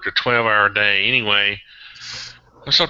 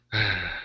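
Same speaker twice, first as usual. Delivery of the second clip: sigh; 3 semitones lower, 7 dB quieter than usual. Real, not acted. Sighs after patches story.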